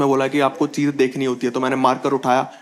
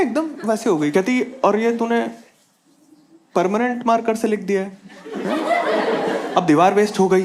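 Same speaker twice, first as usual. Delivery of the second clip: lightly voiced scolding mother, higher; a hint of a fussing mom, pitched up; mom's voice; 6 semitones higher than usual. Mom scolding son over marker on the wall, higher voice.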